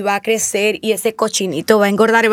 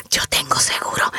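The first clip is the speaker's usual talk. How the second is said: whisper; 10 semitones lower, 6 dB quieter than usual. Acted. Client relieved when trouble comes.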